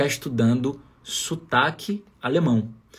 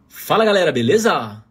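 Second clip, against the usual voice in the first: imitated São Paulo greeting, louder; São Paulo intonation; 5 dB louder than usual. Fitness guy greeting his online followers, imitated São Paulo intonation. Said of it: "quando ele fala beleza, soa pra mim estranho".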